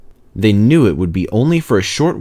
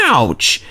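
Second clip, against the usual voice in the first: sudden ouch; 3 semitones higher than usual. A narrator's reading. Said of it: "exclaimed Peter Sam suddenly".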